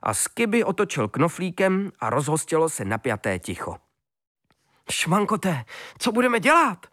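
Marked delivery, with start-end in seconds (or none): 4.9-6.9 worried. A narrator's reading. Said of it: "strachoval se".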